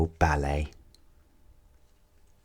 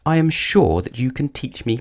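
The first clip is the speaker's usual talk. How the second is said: a higher, hopeful plea; pleading; 5 semitones higher than usual. Acted. Clumsy dancer begging her teacher for lessons, pleading. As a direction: beg sweetly to be taught. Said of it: "pleaded little Miss Whoops".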